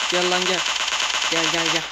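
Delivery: loud, insistent come on; loud taunting. Real, not acted. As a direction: call the enemy in hard. Luring enemy during firefight. (yüksek sesle meydan okuyarak)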